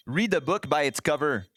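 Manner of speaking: light French Canadian accent; a hint of French Canadian accent. Shown as a demonstration. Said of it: "I'm gonna say expressions with a French Canadian accent".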